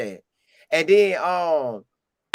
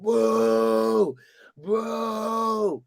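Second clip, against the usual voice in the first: imitating crowd boos; 5 semitones higher than usual. Crowd booing Coach Prime.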